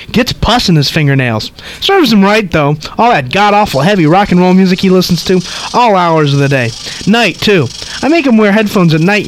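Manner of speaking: put-on high, chattering old lady; gossipy old woman rattling on. Reads old lady's lines.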